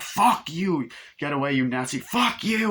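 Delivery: mock angry shout. Retelling a bar fight.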